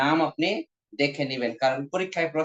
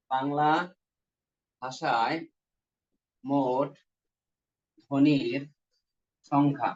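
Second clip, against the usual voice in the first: slow dictation; 2 semitones lower, much slower than usual. Real, not acted. Teacher dictating to students who are writing, slow dictation. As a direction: dictate one word at a time.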